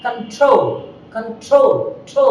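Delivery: কন্ট্রোল with an aspirated t on ট্রো. Shown as a demonstration. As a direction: puff of air on the t of কন্ট্রোল. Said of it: "stress হলে aspirated হবে". (কন্ট্রোল, ট্রো-তে হাওয়া)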